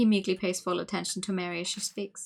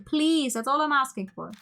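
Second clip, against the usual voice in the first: higher, louder pleading; exasperated plea; 5 semitones higher, 4 dB louder than usual. Real, not acted. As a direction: beg in exasperation. Pleading with the game.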